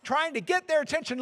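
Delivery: normal talking voice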